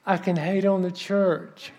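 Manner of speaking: slow, drawn-out delighted realization; gleeful agreement. Retold or imitated. He joins her complaint about the church, gleeful agreement. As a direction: stretch it out with comic relish. Relieved comic reply, laughter follows.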